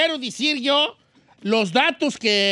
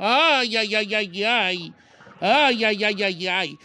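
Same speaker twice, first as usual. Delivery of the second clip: mock lament; slower than usual. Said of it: "pasa usted el llanto".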